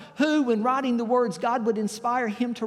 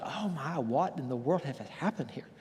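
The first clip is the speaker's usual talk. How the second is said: farmer's amazed thought; 5 semitones lower, 7 dB quieter than usual. Retold or imitated. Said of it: "And he thought".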